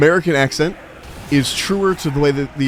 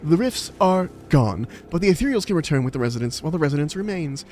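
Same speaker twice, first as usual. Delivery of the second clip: soft-spoken British quest-giver; earnest amateur British accent; put-on British accent; 4 dB quieter than usual. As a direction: read the briefing in British English. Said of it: "it's the best British accent".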